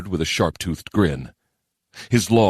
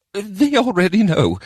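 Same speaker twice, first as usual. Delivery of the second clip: very high-pitched goblin voice; squeaky little goblin answering back; 3 dB louder than usual. A narrator's reading. Goblin adviser answering the mayor, squeaky. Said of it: "Giblick replied".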